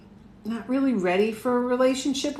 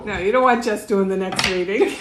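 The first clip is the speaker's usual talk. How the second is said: laughing; 4 dB louder than usual. Real, not acted. Laughing at daughter's offer.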